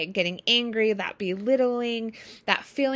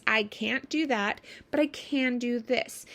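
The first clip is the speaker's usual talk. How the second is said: calm offer; 3 semitones higher, slower than usual. Shown as a demonstration. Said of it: "people actually respond fairly well".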